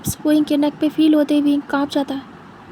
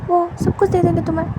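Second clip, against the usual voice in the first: anxious bargaining; 3 semitones higher than usual. Acted. Wing bargaining with money.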